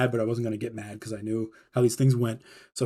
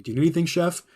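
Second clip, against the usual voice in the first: higher, overly sweet politeness; fake nice; 5 semitones higher, faster than usual. Cook to snooping head chef, higher and fake-sweet. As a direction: sound friendly while meaning get lost. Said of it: "Like, just real nice".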